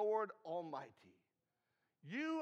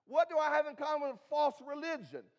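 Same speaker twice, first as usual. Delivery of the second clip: higher and louder preaching question; emphatic question; 5 semitones higher, 5 dB louder than usual. Real, not acted. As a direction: press the question on the congregation. Repeats rhetorical question, louder.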